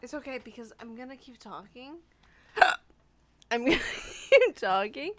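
talking through hiccups; hiccuping mid-sentence. Real, not acted. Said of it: "I still have the hiccups".

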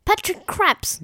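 "Patrick Crapps", the first sounds swapped from Patrick Cripps; jumbled syllables. Retold or imitated. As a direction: say "Patrick Crapps" slowly, Cr moved to the surname. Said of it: "Patrick Crapps instead of Patrick Cripps".

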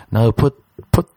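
high, slowing thrilled rambling; excited squeak. Pretend. Praising the girl's Papi, high giddy gushing. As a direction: gush like a giddy kid.

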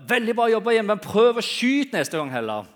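high, loud sarcastic coach yell; coach shouting. Retold or imitated. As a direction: bellow it from the sideline. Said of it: "hører treneren rope".

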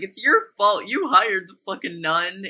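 hammed-up blaming shout; mock angry Mickey. Mickey blaming Ian, retold.

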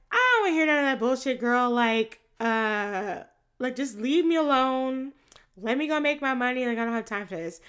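loud, fast dismissive snap; irritated brush-off. Retold or imitated. Cindy waving off her best friend, irritated snap.

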